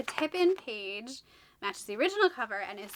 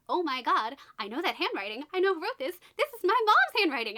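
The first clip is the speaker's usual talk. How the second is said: shocked realization; 4 semitones higher, 4 dB louder than usual. Retold or imitated. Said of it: "she realizes".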